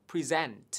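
"Present" with SENT stressed; model pronunciation. Shown as a demonstration. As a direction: say "Present" as pri-ZENT. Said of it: "đó chính là từ present". (đọc mẫu "Present")

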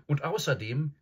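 high-pitched, eager interjection; cried objection. Acted. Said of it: "rief Susan".

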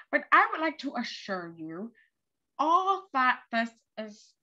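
slow, measured public announcement; mayor's address. Acted. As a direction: reassure the city like a calm mayor on TV.

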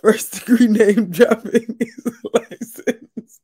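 slow, mocking repeat with a laugh; laughing mockery. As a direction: laugh through the quote. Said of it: "repeating Leah's line, laughing".

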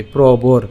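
প্রবর in two parts, pro-bor; careful pro-bor demo of প্রবর; broken-up pronunciation. Shown as a demonstration. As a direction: say প্রবর with র closing the last syllable. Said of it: "আর একটু ভেঙে দিই".

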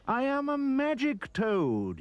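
high, slow, booming proclamation; magic toad's cry. Acted. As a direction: announce it grandly like a magic toad. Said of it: "he cried".

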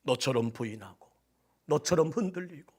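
ordinary delivery

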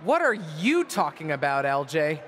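sneering repeat of her words; mocking echo. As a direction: throw her question back scornfully. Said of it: "mocking repeat of her question".

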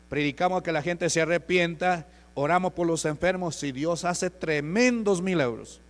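re-enacted evangelist's declaration, forceful and loud; loud proclamation. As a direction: preach it out at full volume. Re-enacts proclaiming his church to strangers.

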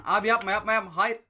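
rising panicked no, no; begging the ball away from goal; alarmed pleading. Real, not acted. Gamer pleading as opponent nears goal, alarmed.

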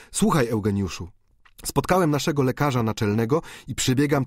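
put-on young student rushing back with instructions; Bianchon's voice. Bianchon speaks urgently. (pośpieszny, lekko wyższy głos młodego medyka)

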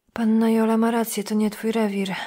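ordinary delivery, nothing marked

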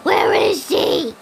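drawn-out, slow where is he; slow searching call. Real, not acted. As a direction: call it out slowly. Hunting the thief.

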